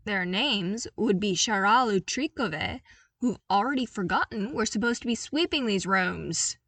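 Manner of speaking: crisp military reply; proud soldier at attention; clone commander. Acted. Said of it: "Commander Cody cut in".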